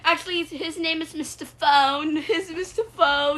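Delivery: high put-on voice; high-pitched cartoon chatter; squeaky cartoon character. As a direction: introduce the characters in a high little voice. Toilet and phone characters introduce themselves.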